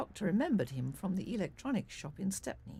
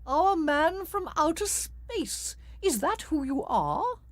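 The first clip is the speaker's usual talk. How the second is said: slow, loud, drawn-out taunt; mocking villain; 6 semitones higher, 6 dB louder, slower than usual. A narrator's reading. Rook taunts the doctor about outer space, slow mockery. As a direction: tease the doctor's secret.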